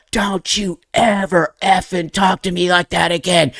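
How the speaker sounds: high mock-angry telling-off; high, strained retold outburst at normal pace; retold yell. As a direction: re-enact snapping back at dad, without full volume. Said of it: "I literally yelled back at my dad".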